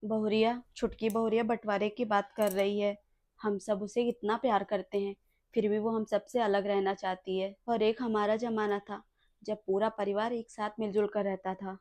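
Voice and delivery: put-on soft, sorrowful old mother; sad lament. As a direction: mourn the family falling apart. Old mother laments family split. (धीमी उदास शिकायत)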